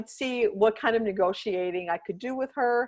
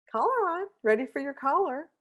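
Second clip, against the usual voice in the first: coaxing dog talk; 6 semitones higher than usual. Retold or imitated. Coaxing the dog sing-song.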